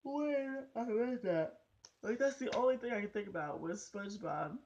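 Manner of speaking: giggling through the words; can barely get it out for laughing; laughing while telling. Real, not acted. Amused by the name Larry, laughing through the line.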